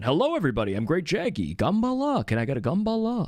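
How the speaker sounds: lightly voiced raptor monster, rising on Gambala; hammed-up monster greeting, pitch jumping up; Great Jaggy impression. Streamer doing a monster impression chat asked for, a lightly voiced raptor. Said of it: "Do a great Jaggy impression".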